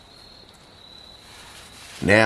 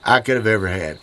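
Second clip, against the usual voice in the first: fighting back tears over his dead dog; grief-choked voice; 7 semitones higher than usual. Real, not acted. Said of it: "my voice is messed up".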